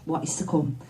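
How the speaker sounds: measured, intimate spoken-word delivery; poem recitation. Acted.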